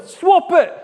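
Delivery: loud, high shout; children in the crowd yelling loud and high; kids shouting. Retold or imitated. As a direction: call it out like an excited child. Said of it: "Some are shouting".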